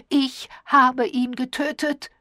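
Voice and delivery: high, loud, drawn-out wail; wild cry. A narrator's reading. Diana believes she killed him, wild cry. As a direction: cry it out slowly in horror. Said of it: "stieß Diana einen wilden Schrei aus".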